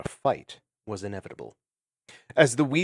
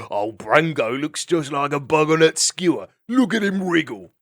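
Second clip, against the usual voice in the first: callous mockery; 5 semitones higher, 5 dB louder than usual. Vermin mocking dying ferret.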